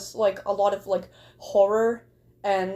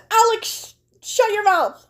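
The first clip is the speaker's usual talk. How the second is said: higher, louder joking shout; mock yell; 10 semitones higher, 6 dB louder than usual. Teasing a viewer in chat, mock shout. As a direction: playfully bark at him to hush.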